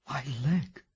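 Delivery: soft, hushed worried whisper. Acted. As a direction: breathe the words in fear. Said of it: "he whispered".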